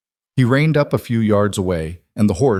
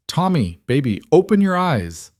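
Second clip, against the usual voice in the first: much higher frantic plea; panicked pleading; 8 semitones higher than usual. Acted. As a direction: beg him to wake up, rising in fear. Mother pleads with feverish son.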